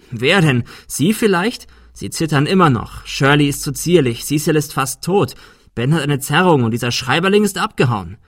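heated, rising, loud. Acted. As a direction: build it up into an angry rant. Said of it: "Arthur war immer lauter geworden".

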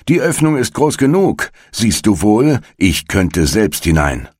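high-pitched, exasperated witch; scolding old witch. A narrator's reading. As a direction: snap it high at the silly girl. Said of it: "sagte die Alte". (ungeduldig keifende Alte)

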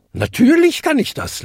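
hohe, belustigte Feenpatin; amüsiert. A narrator's reading. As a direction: antworte belustigt mit hoher Stimme. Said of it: "lachte sie". (leicht belustigt)

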